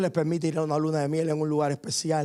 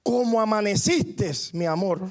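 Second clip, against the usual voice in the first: exasperated outburst; 2 semitones higher than usual. Retold or imitated. Husband fed up with his complaining wife, exploding in exasperation. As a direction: drag it out as he finally loses patience. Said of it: "el esposo explota y le dice".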